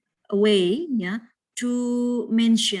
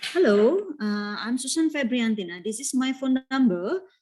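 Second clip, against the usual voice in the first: example phone introduction; 4 semitones higher than usual. Shown as a demonstration. Teacher models giving a phone number to a class, raised demo voice. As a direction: demo phone greeting, lifted Hello and rising end. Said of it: "For example".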